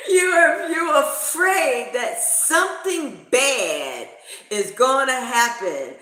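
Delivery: slow, high, laughing words. Retold or imitated. Teller teasing her scared friend, slow and laughing. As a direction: drag it out through giggles.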